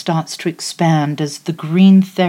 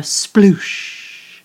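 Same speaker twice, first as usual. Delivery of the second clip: whispered; 3 semitones higher than usual. Acted. Whispered sound word in meditation.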